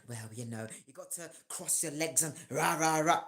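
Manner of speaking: mock posh Queen's English. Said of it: "the Queen's English".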